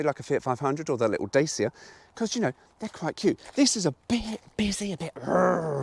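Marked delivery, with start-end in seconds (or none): 5.1-5.8 mock growl. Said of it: "a bit aggressive".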